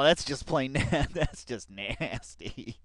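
slow, drawn-out disgust. Real, not acted. Viewer grossed out by a clip, slow disgust. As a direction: drag it out grossed out.

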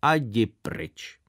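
slow, whispered grumble; grumpy dismissal. Retold or imitated. Father sending the boy away, slow grumbling whisper. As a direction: mutter it off slowly under the breath. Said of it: "Vyslovil to s takovou nevrlostí".

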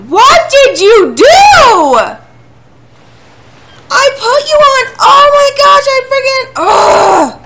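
high, full-volume outraged yelling; furious shout. Real, not acted. Gamer yelling at the one that wrecked the plan, furious shout. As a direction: draw the words out in a real screamed rage. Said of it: "I'm so mad".

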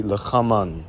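'lachaman' with throaty ch and closing n; Hebrew feminine form. Shown as a demonstration. Teacher recaps feminine perspective, 'lachaman' closing on n. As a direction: say 'lachaman', vowel before final n. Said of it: "from a feminine perspective".

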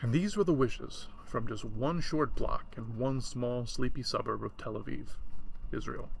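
slow even take, "were" stretched; "And these were the wishes" read slow and level. Shown as a demonstration. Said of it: "I guess it was more like this".

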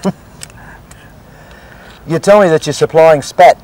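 talking through a mouthful of oyster; chewing while speaking; mouth full. Real, not acted. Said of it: "I know you shouldn't talk with your mouth full".

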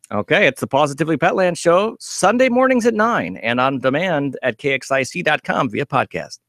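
upbeat radio sign-off; radio promo read. Acted. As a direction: plug the show like a radio host. Reads a show promo.

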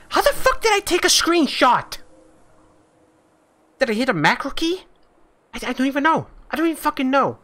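exasperated disbelief. Real, not acted. Baffled by accidental screenshot.

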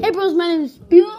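fast, shouted mock intro; PewDiePie. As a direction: shout a vlogger greeting, drawing out the name. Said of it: "Say PewDiePie this time".

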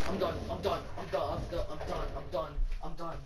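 fading away. Real, not acted. Fading repeated exit.

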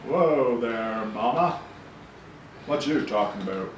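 cocky slangy backtalk; cool kid attitude. Acted. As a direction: brush her off like a cool teen. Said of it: "Why are you talking like that?".

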